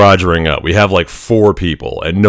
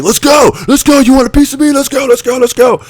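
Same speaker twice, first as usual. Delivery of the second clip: much higher, fast mock challenge; imitated taunting; 3 dB louder than usual. Instructor Teeth challenging the recruit to fight, mock taunting. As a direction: goad him into a fight like a drill instructor. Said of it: "Teeth is like".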